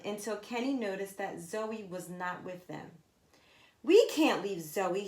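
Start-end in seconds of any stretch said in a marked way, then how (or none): 3.8-5.1 shouted. Acted. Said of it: "he shouted".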